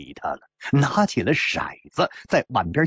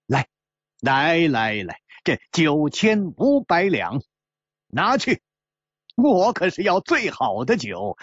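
sneering. Acted. Gambler to host whose daughter wants him killed, sneering. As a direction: start with a cold sneer, build into demanding the best. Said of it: "冷笑了一下， 接着说".

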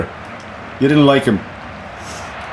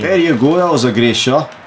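put-on light, uncertain Scottish accent; a hint of Scottish accent; attempted Scottish accent. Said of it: "Was that a good, uh, Scottish accent?".

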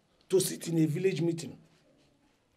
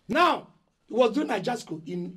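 louder and higher, erupting again; loud angry outburst; 3 semitones higher, 5 dB louder than usual. Acted. Eldest son shouting at the elders. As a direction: burst out, raising the stakes. Elder brother rants at family.

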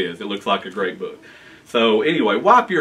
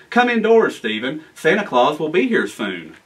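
calling mother; 3 semitones higher than usual. Acted. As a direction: call the boy inside from afar. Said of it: "heard his mother yelling".

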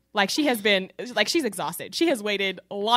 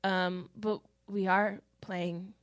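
put-on confused teens; 3 semitones lower, 7 dB quieter, slower than usual. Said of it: "The kids are like".

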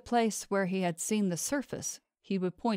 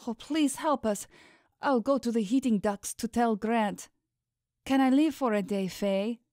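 higher-pitched servant's urgent plea; desperate servant, pleading; 5 semitones higher than usual. A narrator's reading. Servant begging Faye for leave to warn Grant, urgent higher plea. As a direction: beg for help, voice raised in pitch. Voices Millie pleading for help.

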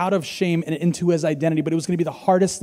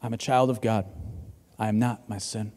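quiet affirmation; 10 semitones lower, 8 dB quieter than usual. Acted.

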